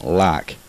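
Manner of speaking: "like" stretched slowly into a broad "lahk"; overpronounced Southern I. Shown as a demonstration. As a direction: drag out the vowel in "like". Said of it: "we tend to overpronunciate vowels".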